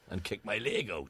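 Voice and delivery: low mock crooner; put-on singer voice; a famous crooner. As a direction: say it deep and showy. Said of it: "should kick his leg out".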